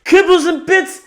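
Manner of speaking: very high, loud strained voice; hammed-up falsetto ow; high pained yelp. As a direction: squeak through the pain. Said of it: "you're like".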